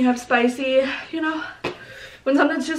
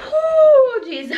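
mouth burning from spicy food; 12 semitones higher, 4 dB louder than usual. Real, not acted. Reacting to spicy noodles.

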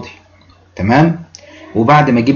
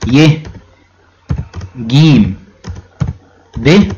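spelled letters; much slower than usual. Shown as a demonstration. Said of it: "اللي قال لي".

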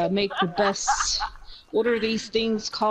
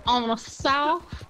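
lightly acted haughty customer, words stretched out; in-character imperious food order; demanding customer; 4 semitones higher, 3 dB louder than usual.

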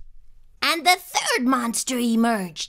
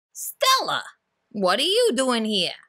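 surprised monster. Acted. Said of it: "Gabe asked".

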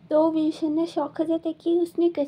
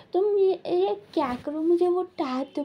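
higher-pitched mock yell for the tab; half-hearted shout, only retelling it; retold yell; 5 semitones higher than usual. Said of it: "वो चिल्लाता है कि". (ऊँची आवाज़ में हल्का नकली चिल्लाना)

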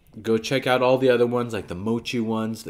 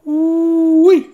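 sour reaction; 11 dB louder than usual. Real, not acted. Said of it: "that was so sour".

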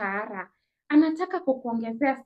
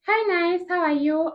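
bright, higher sugary greeting from the boss; sweet boss voice; 5 semitones higher than usual. Retold or imitated.

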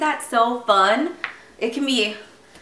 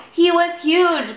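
mild bawl; 9 semitones higher than usual. A narrator's reading. Sheep tell Little Bear of the wolf, mildly bawling. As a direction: bawl it high, storybook style. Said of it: "bawled the sheep".

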